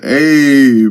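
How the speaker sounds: high, drawn-out mild yell; yelled hey. A narrator's reading. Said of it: "and Kellex yelled".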